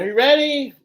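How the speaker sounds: high, loud call while still out of breath; breathless shout. Retold or imitated. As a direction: yell up the hill, winded from the run. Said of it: "Breathing heavy".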